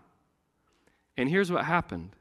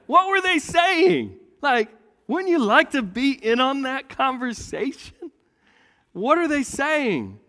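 eager wonder; 12 semitones higher, 6 dB louder than usual. Real, not acted. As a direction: wonder aloud with delight. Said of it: "wonder at the conversation".

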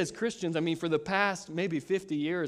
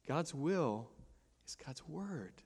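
quiet restated motto; 8 dB quieter, slower than usual. Shown as a demonstration. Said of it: "say that with me".

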